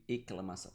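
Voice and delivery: "exclamação" said as "eclamação"; dropped S. Shown as a demonstration. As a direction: leave the S out of "exclamação". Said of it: "eu não leio exclamação". ("exclamação" lido sem som de S, "eclamação")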